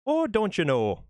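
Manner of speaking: high, bright mock Midwest "Oh, don't you know?"; Midwest accent. Mocking a Midwesterner to a chat viewer in Midwest accent. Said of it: "somebody from, say, the Midwest".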